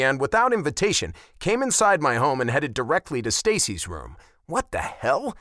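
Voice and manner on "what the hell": indignant, drawn-out excuse me; barking. A narrator's reading. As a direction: bark at the intruder. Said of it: "I barked".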